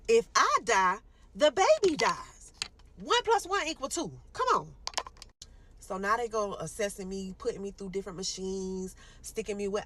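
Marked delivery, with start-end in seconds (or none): 0.1-4.8 high, loud desperate plea; patient screaming at doctors to save her; screaming to be saved. Retold or imitated. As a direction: beg the doctors at full voice. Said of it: "I'm screaming to them".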